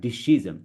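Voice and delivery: DECISION garbled as di-SHEE-zum; mispronounced. Shown as a demonstration. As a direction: say "decision" wrongly with sh in the middle. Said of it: "It's not decision".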